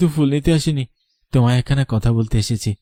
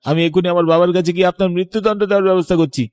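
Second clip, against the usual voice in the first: furious threat; 2 semitones higher, faster than usual. Acted. Son confronts murderous stepmother.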